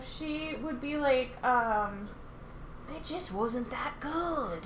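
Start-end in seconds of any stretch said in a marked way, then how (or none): 3.0-4.6 a slow, half-laughing bad British accent. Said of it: "really bad British accent".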